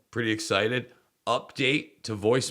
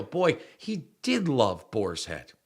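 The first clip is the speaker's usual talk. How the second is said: digital avatar voice; slower than usual. Pretend. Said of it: "digital avatar Jason".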